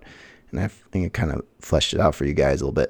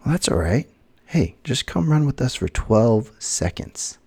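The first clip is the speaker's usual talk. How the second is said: upbeat runner; 5 semitones higher than usual. Retold or imitated. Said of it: "this guy says".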